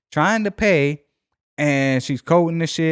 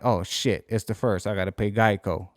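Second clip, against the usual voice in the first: muttered realisation; 6 semitones lower, 6 dB quieter than usual. Retold or imitated. Sudden realisation, muttered to himself.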